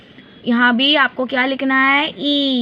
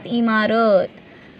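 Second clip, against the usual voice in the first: slow drawn answer; 3 semitones lower, much slower than usual. Shown as a demonstration. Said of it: "काय म्हणतात".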